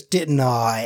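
mock British tag question; comic British sentence-ender; Justin McElroy. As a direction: tack it on in a bad British accent. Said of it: "Justin McElroy doing a, a British accent".

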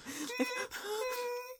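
high, soft mock whimper; cowering whimper. Pony cowering from the magic, high soft whimper. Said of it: "Fluttershy is cowering".

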